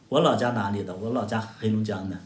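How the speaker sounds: usual speaking voice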